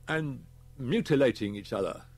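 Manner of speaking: grave inspector. Acted. Inspector briefs Holman on the school deaths, grave. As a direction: report the grim facts firmly. After a pause.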